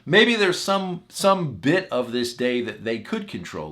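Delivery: ordinary talk, nothing marked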